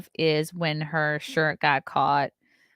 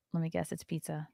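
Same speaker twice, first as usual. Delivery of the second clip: talking between sips; while sipping a drink; 9 dB quieter than usual. Real, not acted. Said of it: "Can you guys hear me drinking?".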